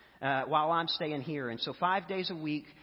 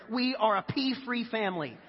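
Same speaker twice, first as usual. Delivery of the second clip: mock declaration; 4 semitones higher than usual. Husband walks back in to wife, declaring grandly. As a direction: proclaim it like a new household law. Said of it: "and I declared".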